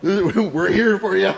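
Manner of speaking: high, slow gushing imitation; mock sentimental. Friends comforting driver after escape, slow mock sentimental. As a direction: draw it out sappily through amusement. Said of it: "getting so sentimental on me".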